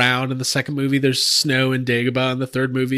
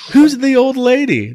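laughing; 8 semitones higher, 4 dB louder than usual. Pretend. Movie quote laughing.

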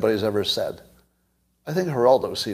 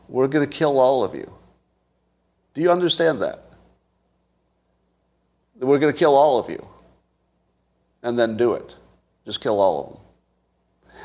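stern warning to cartels. Pretend. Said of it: "This war goes like this".

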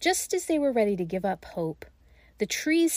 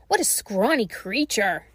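exclamation; 3 dB louder than usual. Acted. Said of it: "she exclaimed".

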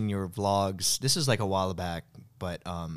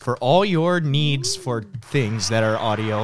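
hard sell ad; 3 dB louder, slower than usual. Pretend. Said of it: "I'm reading it like an ad".

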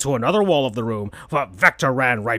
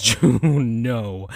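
laughing; 4 semitones lower than usual. Real, not acted. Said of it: "laughing breakdown".

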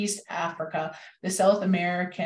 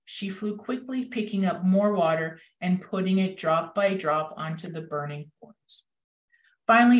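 story read-aloud. A narrator's reading. Reading the hummingbird story to listeners, storytelling with a hushed ending. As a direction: tell the story gently, letting the ending drop. Reads picture book aloud.

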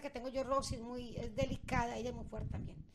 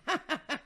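imitated evil cackle; mock-demonic laugh; evil-spirited laugh; 3 semitones higher, 4 dB louder than usual. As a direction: cackle like a possessed parrot. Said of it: "Esta Rosy tiene mal espíritu".

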